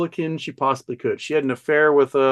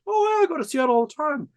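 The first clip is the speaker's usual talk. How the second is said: much higher, chummy fake-friend voice; a lightly mocking chummy stranger, slowing at the end; mock friendly stranger; 9 semitones higher than usual. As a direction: play the overly friendly spy at the bar. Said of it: "somebody who's like".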